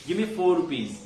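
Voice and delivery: usual speaking voice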